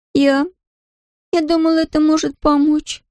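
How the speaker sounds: put-on high, halting girl's confession; girl owning up to her father; hesitant daughter. A narrator's reading.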